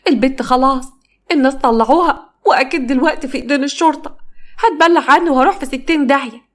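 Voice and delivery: high panicked wail to her mother; wailing lament. Acted. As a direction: wail it like a mourner beating her head. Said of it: "وبتندب وبتخبط في دماغها".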